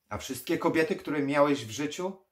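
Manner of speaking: loud, high retort; heated challenge. Acted. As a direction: throw the question back hard. Necromancer argues back.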